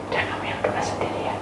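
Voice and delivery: quick whispered aside; hushed instruction. Retold or imitated. Telling child about praying, quick hushed whisper.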